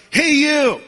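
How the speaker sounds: high, loud parrot squawk; the parrot shouts after the woman, loud and high; parrot yell. Acted. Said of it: "the parrot yelled out".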